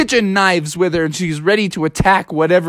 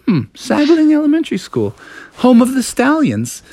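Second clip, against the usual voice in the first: frogs reading a sign; 8 semitones higher than usual. Acted. Frogs read the school's sign.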